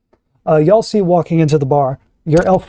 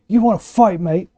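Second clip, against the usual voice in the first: bandit taunt; 6 semitones higher than usual. Acted. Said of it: "They look at each other and say".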